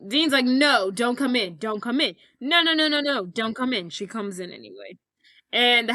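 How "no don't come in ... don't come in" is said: mock panic. Dean stops housekeeper entering.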